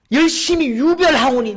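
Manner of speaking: high, shouted lament; loud, impassioned pleading; anguished protest to God. Acted. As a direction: cry out the complaint at full force. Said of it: "하나님 가슴을 치는 거예요".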